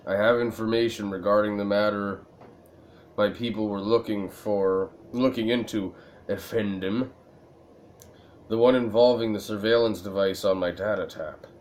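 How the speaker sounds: a hint of a low, secretive informant; mildly hushed Turkish informant murmur; low confiding voice. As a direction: lean in and tell the secret lightly. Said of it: "keeps his voice low".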